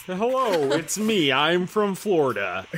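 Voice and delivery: playful stab at a Florida accent; mock Floridian accent. Shown as a demonstration. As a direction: try out a Florida accent, drawing out the end. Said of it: "what's a Florida accent".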